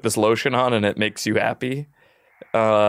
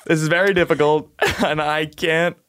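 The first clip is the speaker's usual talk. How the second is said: laughing. Pretend. Laughter breaking through.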